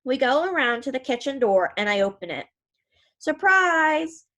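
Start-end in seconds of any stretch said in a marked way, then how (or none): 3.2-4.2 loud, high cry of surprise; the whole family yelling surprise; surprised shout. Acted. Family jumping out at birthday girl, loud surprise shout.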